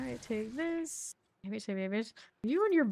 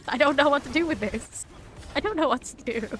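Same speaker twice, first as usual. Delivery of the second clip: acted bafflement, higher pitched; mock helpless bewilderment, pitched up; flabbergasted; 5 semitones higher, 4 dB louder, faster than usual. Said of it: "state of flabbergastedness".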